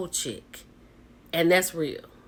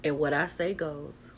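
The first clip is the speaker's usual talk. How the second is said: a cool, unbothered statement, softer; calmly; 3 semitones lower, 6 dB quieter than usual. Retold or imitated. Owner tells her partner who's boss, calmly. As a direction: lay down the law without raising the voice.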